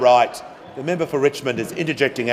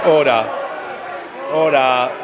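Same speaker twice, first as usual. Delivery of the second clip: shouting order order. Real, not acted. Speaker calling House to order.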